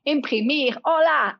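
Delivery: "imprimir, hola" said in Spanish; Spanish words. Shown as a demonstration. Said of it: "you can also say".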